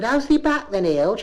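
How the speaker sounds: high rising Bristol greeting; one cleaner greeting another, high Bristol voice. Retold or imitated. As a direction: swoop up on Hild like a question. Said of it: "She said".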